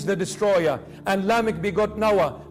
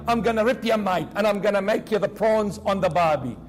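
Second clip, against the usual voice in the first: mock Aussie accent; 2 semitones higher than usual. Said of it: "Looks like Moses was an Aussie".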